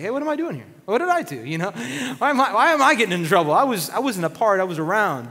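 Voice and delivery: why me, I did nothing; confused innocent. Acted. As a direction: Moses protesting his innocence, high and fast. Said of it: "Moses is like".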